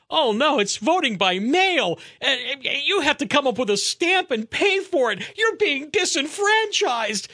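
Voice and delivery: high, climbing mock-distressed complaint; sarcastic mock outrage. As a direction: wail it in mock horror, drawing out the last words. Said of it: "I'm being sarcastic".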